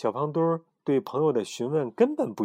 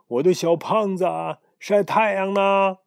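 affectionate; 9 semitones higher, 6 dB louder than usual. Acted. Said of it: "慈爱地问".

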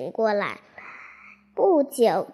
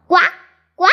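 toad croak; 4 semitones higher, 9 dB louder than usual. Acted. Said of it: "小癞蛤蟆连忙唱道".

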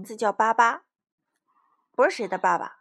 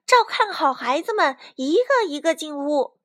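raised, higher voice giving orders; shouting out; 6 semitones higher, 5 dB louder than usual. A narrator's reading. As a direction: call instructions to a crowd. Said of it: "卡梅拉大喊道". (大声喊着指挥)

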